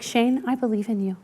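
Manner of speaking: soft, heartfelt, overly sincere encouragement; overly earnest belief. Shown as a demonstration. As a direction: lay the sincerity on thick, hushed. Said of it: "that kind of overly, like, "I believe" type of voice".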